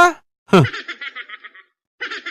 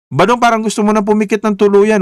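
mock-worried call; 3 semitones higher than usual. Waking a guest who slumped.

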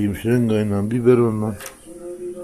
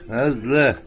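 slow, drawn-out pet talk, raised voice; reassuring the cat; 3 semitones higher, 4 dB louder, slower than usual. Real, not acted. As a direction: soothe an anxious mother cat, stretching the words. Sahibi kedisini yatıştırıyor. (kediyi yatıştırır gibi, uzata uzata)

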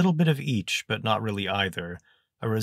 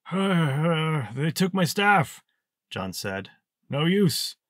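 put-on higher, slow, halting old wizard; hesitant old mage; 8 semitones higher, slower than usual. Old mage explains snake magic to Zek, higher, slow and halting. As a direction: stammer it out like a doddering mage.

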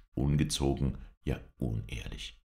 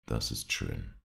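suddenly serious; 7 semitones lower, slower than usual. Acted. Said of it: "in plötzlich sehr ernstem Ton".

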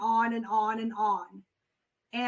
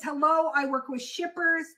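calm sales pitch. Shown as a demonstration. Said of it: "and so he says".

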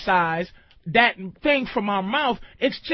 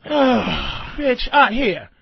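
resigned; 2 semitones lower, much slower than usual. Shown as a demonstration. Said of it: "different inflections of bitch".

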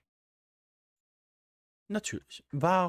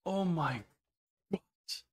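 scared horror game streamer; 5 semitones higher, slower than usual. Real, not acted.

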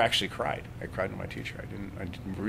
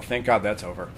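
said on the in-breath, no sigh; clipped, holding the breath; quick tense breath-in. Shown as a demonstration. Teacher showing the rare tense way, without relief. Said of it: "Very rarely does somebody go".

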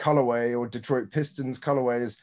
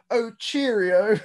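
much higher, slow, sing-song cheerio; a mocking commentator's slow, high, sing-song cheerio; 10 semitones higher, 4 dB louder, much slower than usual. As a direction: drawl it out like a cheesy announcer. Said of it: "the commentator goes".

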